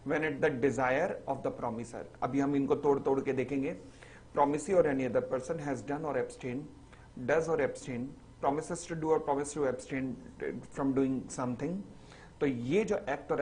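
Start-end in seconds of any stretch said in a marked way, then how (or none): 0.1-2.0 very slow, every word spaced out; slow dictation. Shown as a demonstration. Teacher reading the definition aloud for notes, very slowly. 4.3-11.8 very slow, every word spaced out; slow dictation. Shown as a demonstration. Teacher reading the definition aloud for notes, very slowly.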